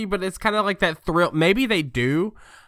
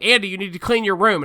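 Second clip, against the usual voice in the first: lightly voiced mom, higher and louder; nagging mom; 4 semitones higher, 5 dB louder, faster than usual. Mom telling child to clean the room, mock nagging. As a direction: call out a chore like a mock mom.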